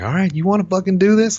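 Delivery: retold heated challenge, high and loud; angry challenge. Husband reenacting a kitchen quarrel with his wife, angrily challenging.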